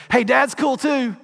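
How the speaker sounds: put-on dad laughing as he talks to the baby bump; playful baby-belly talk. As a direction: charm the unborn baby. Speaking to pregnant wife's belly.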